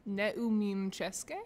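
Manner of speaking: slow Czech in an American accent; butchered American accent. Shown as a demonstration. Practising a Czech phrase, butchered American accent. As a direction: carefully sound out Czech with American vowels. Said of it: "in butchered American accent".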